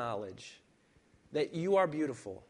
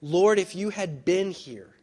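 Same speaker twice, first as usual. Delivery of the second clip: loud, slow, higher cry of grief; anguished plea; 6 semitones higher, 10 dB louder than usual. Acted. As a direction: plead with the Lord in raw grief. Martha's grieving plea quoted.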